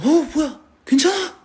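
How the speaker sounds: high, loud startled "뭐야? 괜찮아?"; startled alarm. Retold or imitated. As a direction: jolt of surprise, rushing to check. Startled aunt checks on child. (깜짝 놀라 다급하게 묻는 목소리)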